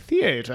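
"theater" as thee-AY-tuh; mock "theater", thee-AY-tuh; old New England pronunciation. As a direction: imitate an old woman saying "theater" with a long A. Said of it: "an old woman from New Hampshire".

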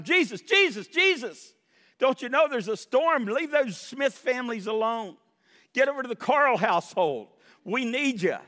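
high, loud pleading call to wake Jesus; desperate cry to Jesus. Acted. Preacher acting out a frantic prayer to a sleeping Jesus, high loud pleading. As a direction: cry out to him like the boat is sinking.

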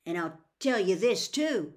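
loud, accusing voice, climbing in pitch; defiant character voice. A narrator's reading. Frank accusing the voice of murder, loud and defiant. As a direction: throw the accusation at him loudly. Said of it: "he added, on a sudden inspiration".

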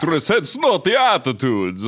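lightly put-on vampire accent; funny vampire reading voice. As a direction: read the complaint as a comic vampire. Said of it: "do this in a vampire voice".

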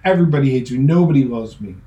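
mock pity party. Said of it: "pros at throwing pity parties".

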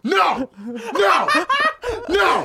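sharp, high, loud no. Real, not acted. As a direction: cut in with loud protest. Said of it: "Why are you yelling?".

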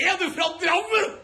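high, mocking surprise, with laughter; mocking northerner. Comedian mimics islanders teasing him, high mock surprise. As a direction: squeal it like a gawking local. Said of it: "og så er folk sånn".

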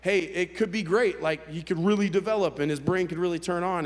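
upbeat, lifted retelling of reassurance; lightly acted optimism; hopeful encouragement. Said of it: "They give you all this hope".

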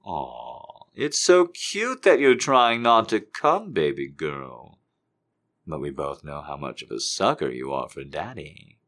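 slow, teasing coo; slow teasing daddy. Acted. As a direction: tease her slowly. Seductive daddy quote.

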